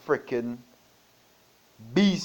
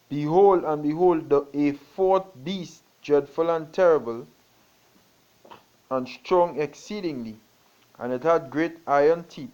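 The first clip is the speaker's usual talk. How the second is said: raised, dramatic proclamation of the beast; scripture reading; 3 dB louder than usual. Acted. Preacher to congregation, proclaiming the beast loudly. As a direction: proclaim the dreadful beast loud. Reads the fourth beast passage.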